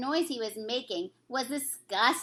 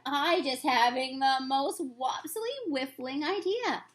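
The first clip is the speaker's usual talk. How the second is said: a lightly voiced kindly giant; friendly old giant, lightly put on; BFG voice; 3 semitones higher, slower than usual. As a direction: read the giant's lines with gentle storybook character. BFG excited by idea.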